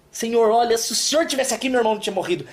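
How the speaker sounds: a mild reproach, lightly voiced; reproachful tone. Marta reproaching Jesus, mildly accusing. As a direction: complain gently that he came late. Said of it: "ela chega com um tom assim".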